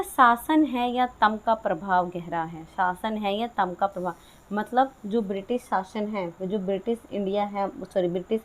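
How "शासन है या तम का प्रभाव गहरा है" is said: slow, measured reading of the verse; slow poem recitation. Shown as a demonstration. Teacher reciting the poem line slowly to the class. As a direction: read the line out slowly, savouring each word.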